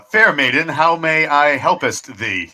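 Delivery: slow, hammed-up Renaissance fair politeness; mock-chivalrous gallantry. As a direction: play the courtly hero, drawn out. Mock-archaic gallant address to the maiden.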